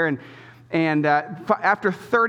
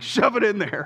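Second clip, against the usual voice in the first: impatient dad; 5 semitones higher than usual. Retold or imitated. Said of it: "no patience left".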